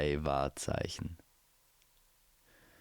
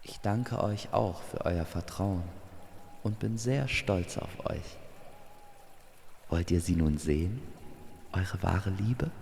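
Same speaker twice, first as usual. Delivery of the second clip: proud guardian. Acted. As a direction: praise them like a proud mentor. Guardian figure praises the lovers.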